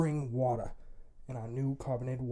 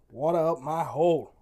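shouted slogan; 4 semitones higher, 11 dB louder than usual. Shown as a demonstration. Host shouting the promo code at listeners. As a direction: belt the promo code out loud.

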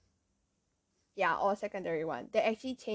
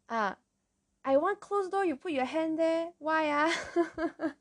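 scolding; 7 semitones higher, slower than usual. Retold or imitated. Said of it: "They're like".

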